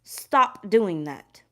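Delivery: each word slowed right down, "Stop doing that" spelled out; slow deliberate repeat of Spirit's warning. Retold or imitated. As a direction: drag it out so it sinks in. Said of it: "And Spirit is saying".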